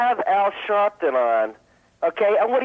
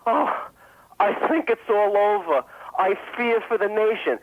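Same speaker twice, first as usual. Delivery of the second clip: simpering henpecked; 4 semitones higher than usual. Retold or imitated. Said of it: "in a simpering, fetid, henpecked tone say".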